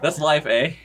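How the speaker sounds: hammed-up Canadian "eh" lilt; mock Canadian. Dad shrugging off the murder, mock Canadian accent. Redoes line as joking Canadian.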